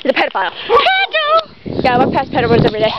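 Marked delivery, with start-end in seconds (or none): 0.7-1.8 mock call-out. Calling out at the pedophile.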